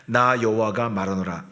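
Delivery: reading the verse aloud from the start; solemn read of the Lord's words; formal Bible recitation; scripture reading. Acted. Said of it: "시작".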